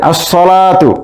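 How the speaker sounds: "আর সলাতু" as as-salatu, no L; silent lam. Shown as a demonstration. Teacher showing students the silent lam in "আর সলাতু". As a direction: slowly double the S in "আর সলাতু". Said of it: "লাম উচ্চারণ হচ্ছে না".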